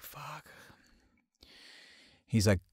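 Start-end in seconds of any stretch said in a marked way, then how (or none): 0.0-0.5 very soft, high retold curse; tiny, near-silent expletive; hushed curse. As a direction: swear under your breath, acted out. His hushed reaction to jail.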